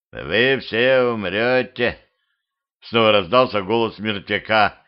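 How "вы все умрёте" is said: slow, droning dead man's threat; corpse voice. Acted. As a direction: intone it like a corpse. Corpse voice again. (медленный замогильный голос)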